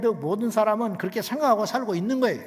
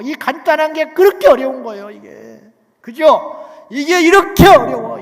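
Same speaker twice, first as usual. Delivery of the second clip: loud, higher exasperated cry; loud pulpit exasperation; exasperated shout; 7 semitones higher, 13 dB louder than usual. Acted. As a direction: cry out how hard it is. Preacher exclaims at difficulty.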